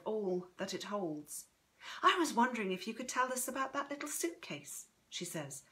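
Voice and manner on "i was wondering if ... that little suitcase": lightly voiced granddaughter, a little higher; lightly higher voice, tentative request; Chrissy, tentative. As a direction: ask gently, with polite curiosity.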